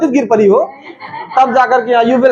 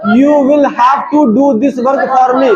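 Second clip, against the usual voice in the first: very slow, every word stretched; slow demo English; much slower than usual. Shown as a demonstration. Teacher offers to show the class how, very slow. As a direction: spell it out slowly for the class. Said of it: "मैं बताऊं क्या?".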